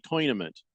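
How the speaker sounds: "tournament" said as "toynament"; imitated pronunciation. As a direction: say "tournament" with OY in the first syllable, TOY-nament. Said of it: "Sounds like you say tournament".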